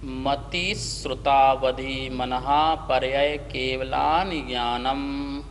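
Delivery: measured, deliberate Sanskrit recitation; slow sutra recitation. Shown as a demonstration. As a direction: chant the sutra slowly and evenly. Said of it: "एक बार हम उच्चारण करते हैं".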